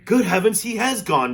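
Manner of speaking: high, loud shocked shout. Acted. Father shouts in shock at son's vanishing, loud. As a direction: shout in disbelief. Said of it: "shouted Mister T V".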